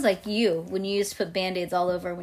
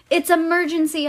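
louder, higher urgent cry; urgent shout; 9 semitones higher, 9 dB louder than usual. A narrator's reading. Girl needing the potty at a locked door, shouting. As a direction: shout it as a desperate story character. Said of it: "I shouted".

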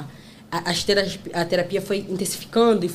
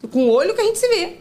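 high and loud mock telling-off; retold scolding; 10 semitones higher, 6 dB louder than usual. Mom retelling scolding son over wasted creams. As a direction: scold him, half joking.

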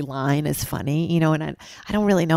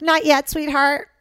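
gently halting; 11 semitones higher, 4 dB louder than usual. Retold or imitated. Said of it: "And I'm like".

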